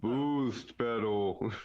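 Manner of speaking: slow, drawn-out salesman tone; shilly ad read. Pretend. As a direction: stretch the name like a commercial. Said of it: "but even more shilly?".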